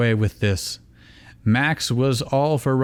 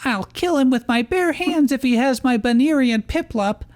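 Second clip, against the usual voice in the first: raging threat. Acted. Dawn threatening in rage.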